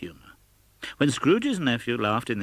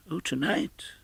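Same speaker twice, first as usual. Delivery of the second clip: cried out; 7 semitones higher, 4 dB quieter than usual. A narrator's reading. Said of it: "cried Scrooge".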